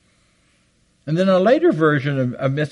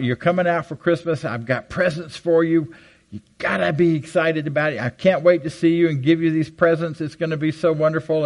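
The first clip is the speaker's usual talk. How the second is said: lightly voiced gushing aunt, pitched higher; great aunt's excitement; 4 semitones higher than usual. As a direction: gush like an eager great aunt. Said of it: "we were hearing from her about".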